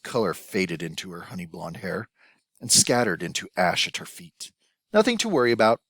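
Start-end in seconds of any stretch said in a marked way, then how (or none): 4.9-5.8 hoarse, strained reassurance. A narrator's reading. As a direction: croak it out, shaken. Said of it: "she repeated hoarsely".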